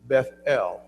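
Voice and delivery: "Bethel" slow, BETH and EL equally weighted; Bethel, both syllables stressed. Shown as a demonstration. Bible teacher modelling "Bethel" slowly, both syllables accented. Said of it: "The emphasis on both of them".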